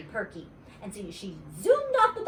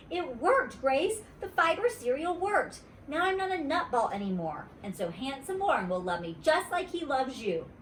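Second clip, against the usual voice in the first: put-on excited little girl; 5 semitones higher than usual. Junie B voice.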